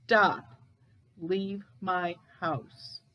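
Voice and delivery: slow, spaced-out ghostly command, firm first word; slow retelling of a raspy order; imitated raspy voice. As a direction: lightly voice a ghost's warning, word by word. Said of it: "a raspy voice say".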